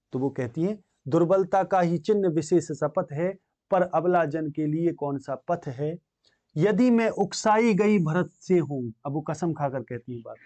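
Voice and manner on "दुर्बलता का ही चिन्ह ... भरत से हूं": slow, measured verse reading; poem recitation. Acted. Teacher reciting Kaikeyi's plea to students, slow verse recitation. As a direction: recite the verse slowly, stretching the words.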